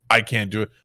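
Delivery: ordinary talk, nothing marked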